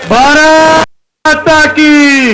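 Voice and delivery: slow stretched rally chant; roaring rallying speech. Real, not acted. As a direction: lead the crowd's slogan. Rally chant leader call. (ज़ोरदार नारा)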